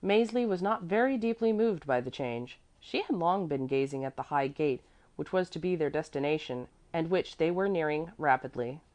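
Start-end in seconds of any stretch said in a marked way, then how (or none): none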